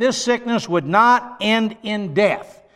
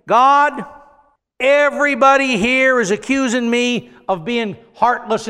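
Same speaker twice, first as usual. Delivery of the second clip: mock complaining prayer; 3 semitones higher than usual. Imagining a prayer Jesus never prayed, mock complaint. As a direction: plead to heaven as if wronged.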